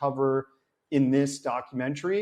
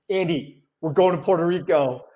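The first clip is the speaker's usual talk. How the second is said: excited announcement; 3 semitones higher, 4 dB louder than usual. Retold or imitated. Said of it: "was like".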